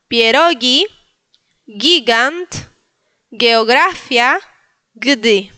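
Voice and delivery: pierogi, gigant, geografia, gdy, each with hard g; slow, separated list "pierogi, gigant, geografia, gdy" for repeating; Polish model words. Shown as a demonstration. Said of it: "voy a volver a repetir". (palabras polacas modelo, g de gato)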